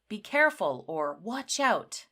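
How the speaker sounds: sudden urgent shout; urgent warning. Shown as a demonstration. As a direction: warn someone sharply. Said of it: "That is a sense of urgency".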